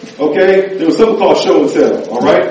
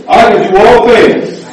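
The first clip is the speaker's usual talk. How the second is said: call to recite; much slower than usual. Shown as a demonstration. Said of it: "recite it after me".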